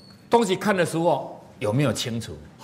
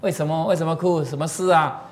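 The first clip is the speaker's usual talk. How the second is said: put-on a kind, higher voice asking a child why he cries; lightly raised, kind tone to a crying child; gentle comfort; 5 semitones higher than usual. Shown as a demonstration. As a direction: soften and reassure. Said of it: "是不是更好听".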